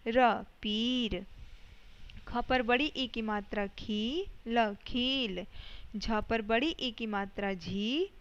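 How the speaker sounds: slow, drawn-out syllable-by-syllable reading, each final word stretched long; teacher sounding out Hindi words slowly for kids to echo; sounding out words for children. Shown as a demonstration. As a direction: read aloud for the class to repeat, blending letter and vowel sign. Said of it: "मेरे साथ आपको भी read करना है".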